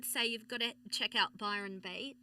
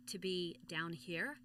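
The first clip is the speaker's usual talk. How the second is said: low, slow and resonant; voice dropped low; 4 semitones lower, 6 dB quieter, slower than usual. Shown as a demonstration. Guest shows hosts her lowered American voice, low and slow. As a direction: drop the voice down and slow it. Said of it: "I switched my voice".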